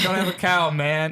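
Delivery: a light, high Bart catchphrase; Bart Simpson catchphrase. Retold or imitated. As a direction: throw out Bart's catchphrase. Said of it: "and he's like".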